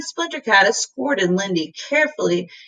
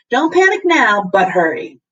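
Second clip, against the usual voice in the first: urgent; 2 semitones higher, 4 dB louder than usual. Acted. Professor urges boys on phone.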